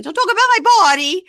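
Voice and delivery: high, fast mock shriek; loud retold outburst; yelling. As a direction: scream over everyone as the outraged wife. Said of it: "as she's yelling".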